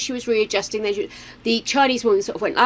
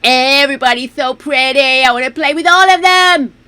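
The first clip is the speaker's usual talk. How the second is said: gushing; 4 semitones higher, 7 dB louder than usual. Real, not acted. Gushing over game characters.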